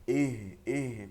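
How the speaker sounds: "ইহ" slow and falling, with no stray puff of air; no escaping air. Shown as a demonstration. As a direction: say "ইহ" slowly without letting breath hang. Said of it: "কোনো বাতাস বসবে না". ("ইহ" বাতাস না বসিয়ে)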